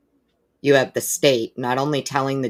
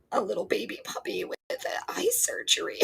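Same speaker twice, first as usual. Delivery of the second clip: higher and much softer, breathy pity; whisper-coo over a hurt puppy; 9 semitones higher, 8 dB quieter than usual. Real, not acted. Host pities a viewer's puppy, soft baby talk.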